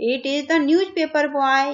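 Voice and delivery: put-on slow, clear reading to children; slow reading aloud. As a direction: read each word out slowly for the class. Teacher reading the text slowly.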